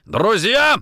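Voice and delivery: high, loud, scornful burst; outraged echo. Acted. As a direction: throw the word back in fury. Interrogator throws the word back.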